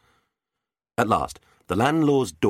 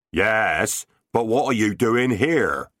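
crying out; 5 semitones higher, 3 dB louder, slower than usual. Acted. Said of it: "Ben the badger baiter cried".

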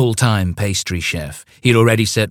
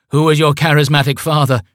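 high, booming cult chant; grand cult leader; 8 semitones higher, 5 dB louder than usual. Acted. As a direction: intone like a vain cult leader. Cult call and response.

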